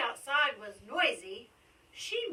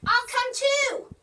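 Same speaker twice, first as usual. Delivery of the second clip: excited; 11 semitones higher, 9 dB louder than usual. Acted. Mitzi calling out eagerly.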